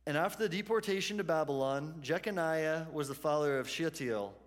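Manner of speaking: measured reading of a genealogy; scripture reading. Real, not acted. Pastor reads the passage to the congregation, scripture reading. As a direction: read the list of names in an even, repeating cadence.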